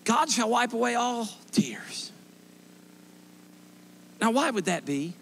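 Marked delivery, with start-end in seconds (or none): 0.0-2.1 slow hushed whisper. Acted. Preacher hushes the congregation with God's promise, slow whisper.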